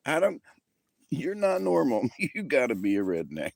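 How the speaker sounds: high squeaky words through helpless laughter; can barely get it out for laughing; laughing hard. Real, not acted. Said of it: "I'm laughing so hard".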